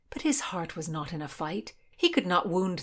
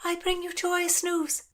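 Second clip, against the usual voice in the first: shout; 11 semitones higher than usual. Acted. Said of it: "Constance shouted".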